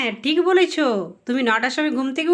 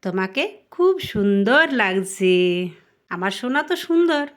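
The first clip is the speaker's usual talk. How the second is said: put-on mother fondly praising her child; tender praise; 3 semitones lower than usual.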